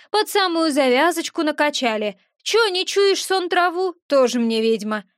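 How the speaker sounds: a touch of sneering little imp; lightly voiced gremlin, scoffing; cheeky gremlin. Gremlin scoffs at the witch for missing the smell, cheeky.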